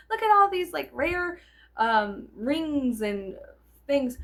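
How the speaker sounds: high, loud showing off; excited husband. Retold or imitated. Husband showing her rare rings: high proud excitement. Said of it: "he goes".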